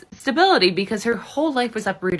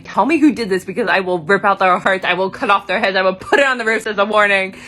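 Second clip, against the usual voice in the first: loud, rapid-fire mock rant; storming threats; 6 dB louder than usual. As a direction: imitate a furious father's threats, louder and forceful. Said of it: "he's literally storming around being like".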